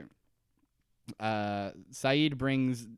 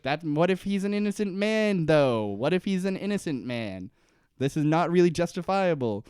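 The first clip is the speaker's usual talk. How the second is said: raised-pitch acted objection; retold exasperated appeal; protesting; 4 semitones higher, 4 dB louder than usual. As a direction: argue back in lightly hammed-up moral protest. Acts Jack protesting to Locke.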